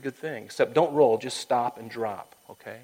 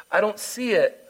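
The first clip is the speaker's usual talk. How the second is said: lightly voiced God, higher and louder; raised, emphatic mock reply from above; God looking down, acted; 9 semitones higher, 6 dB louder than usual.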